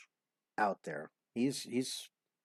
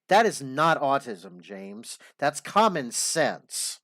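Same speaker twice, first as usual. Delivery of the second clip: emphatic rebuke; 2 semitones higher, 6 dB louder than usual. Real, not acted. Host rebukes caller's autism claim.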